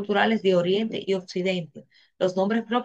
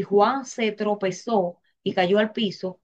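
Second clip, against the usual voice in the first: slow reading; slower than usual. Shown as a demonstration. Teacher rereads the example slowly.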